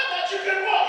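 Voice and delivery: teasing the man who just walked; mock surprise. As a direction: play up the shock.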